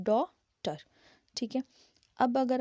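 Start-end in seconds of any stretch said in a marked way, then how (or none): 0.0-0.8 डॉटर with an open ऑ; daughter vowel. Shown as a demonstration. Teacher modelling डॉटर for students. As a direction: say डॉटर with a rounded ऑ. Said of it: "जैसे कि आप डॉटर में बोलते हैं".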